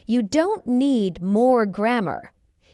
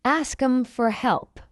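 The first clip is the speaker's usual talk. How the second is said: slow, measured "Ask 'em for help"; slow model; 3 semitones higher than usual. Shown as a demonstration. Teacher models it before asking for faster, slowly.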